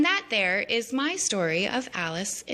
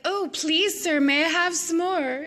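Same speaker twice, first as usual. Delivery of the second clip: much higher begging plea; pleading waif; 11 semitones higher, 3 dB louder than usual. Retold or imitated. Alice begging the Hatter for more, high plea. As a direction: beg like a sweet orphan. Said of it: "she's like".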